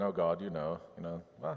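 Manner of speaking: breezy small talk with God; casual coffee chat. Retold or imitated. Jeremiah chatting to God like an old friend, casual and offhand. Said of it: "not talking to God like they're having coffee".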